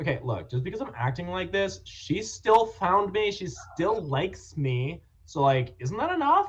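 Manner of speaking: put-on sing-song Valley Girl accent throughout. Improv scene, mom scolding child after a Valley Girl accent call: Valley Girl accent. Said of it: "Valley Girl accent".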